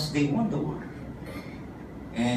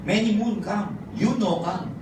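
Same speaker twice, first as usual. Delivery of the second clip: pidgin punchline reply; 2 semitones higher than usual. Retold or imitated. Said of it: "my reply is the same".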